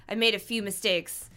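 building angry rant. Acted. Kidnapper's rising rant.

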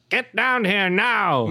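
high, slow, drawn-out yell up the stairs; yelled upstairs. A narrator's reading. Chapman yelling to his wife upstairs, high drawn-out shout. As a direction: call it up to the floor above. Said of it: "he yelled upstairs".

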